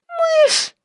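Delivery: a very high, loud shriek of a single word; terrified yell. A narrator's reading. Employee yells at the boss on mistaking the kitten for a mouse, a frightened yell. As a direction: shriek it out in panic. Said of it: "заорала я дурниной".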